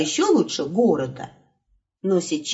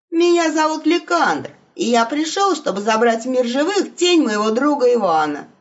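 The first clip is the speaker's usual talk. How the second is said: higher, bold wolf voice; 5 semitones higher than usual. Acted. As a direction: announce yourself boldly. Wolf introduces himself. (голос волка)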